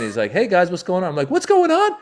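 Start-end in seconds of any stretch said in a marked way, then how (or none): 0.3-1.1 breezy imitated hello, raised pitch; casual greeting. Late host greeting waiting comedians, casual and oblivious. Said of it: "Ahmed casually comes strolling in". 1.3-1.9 very high, loud echo; incredulous outburst. Retold or imitated. Comic answering the casual late host, shrieked incredulous echo.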